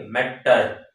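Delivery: ম্যাটার split into two beats, ম্যা-টার; teacher sounding out ম্যাটার; syllable by syllable. Shown as a demonstration. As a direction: break ম্যাটার after the first syllable. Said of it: "দুইটা syllable থাকবে".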